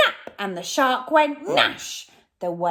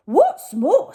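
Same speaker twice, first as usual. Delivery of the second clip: much higher, a fretful robber; robber Len; 11 semitones higher, 11 dB louder than usual. Acted. Robber Len worries the mermaid is awake, high pitched. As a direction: squeak it out with a frown. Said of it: "said Len".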